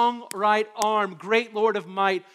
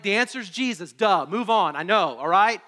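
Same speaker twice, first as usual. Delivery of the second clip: put-on snarky kid; 6 dB louder than usual. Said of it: "my snarky little ten-year-old head".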